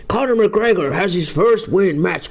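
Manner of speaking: hammed-up Irish lilt on the name Conor; mock Irish accent. Streamer retrying his Irish accent for McGregor's win. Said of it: "I can only really say Conor".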